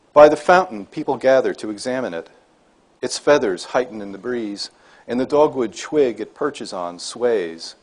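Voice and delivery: deliberate, slightly lifted poet's reading voice; poetry reading. Acted. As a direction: read it line by line, weighting each phrase. Reads own poem aloud to audience.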